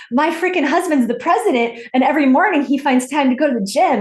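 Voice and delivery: high, loud exasperated outburst; fired-up rant. Retold or imitated. Imitating Michelle fed up with her husband, ranting high and loud. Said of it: "And she's all fired up".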